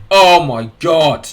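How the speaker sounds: loud, slow, drawn-out cry of disbelief; excited outburst. Real, not acted. Watching a near miss, a loud drawn-out outburst. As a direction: stretch it out as the chance goes begging. Near goal chance in match.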